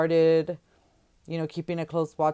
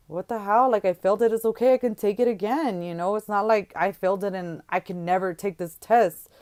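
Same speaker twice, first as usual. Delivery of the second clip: louder, higher defensive pushback; exasperated retort; 4 semitones higher, 4 dB louder than usual. Retold or imitated. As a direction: shrug off his anger. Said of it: "I was just like".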